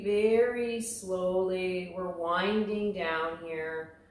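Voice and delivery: unhurried relaxation-class guidance; guided yoga instruction. Real, not acted. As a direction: ease them through it, stretching the key words. Leads slow shoulder circles.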